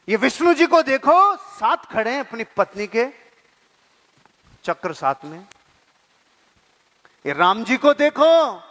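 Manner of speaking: a hint of a wife pleading sweetly with her husband; sweet-talking wife. Wife lovingly asks her husband about the gods, coaxing. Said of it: "प्यार से बातें कर रहे थे".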